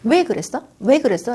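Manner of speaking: put-on a parent grilling a child over what happened; interrogating tone. Shown as a demonstration. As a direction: demand an answer from the child. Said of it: "추궁하듯이 묻는 거".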